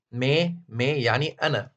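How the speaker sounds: مي said slowly and carefully, twice, falling; slow teaching demo. Shown as a demonstration. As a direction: spell out مي slowly for the class. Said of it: "أول ضمير منهم اللي هو مي".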